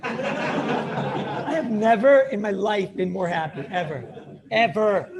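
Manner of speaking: slow, laughing mock rapture; hammed-up happy laughter; laughing bliss. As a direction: savor it through a laugh.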